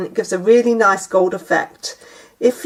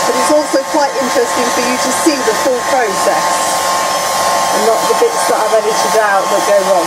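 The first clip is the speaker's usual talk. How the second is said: raised voice over a noisy hairdryer; over hair dryer. Real, not acted. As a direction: speak up over the blowing dryer. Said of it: "Live means you get to hear all of this".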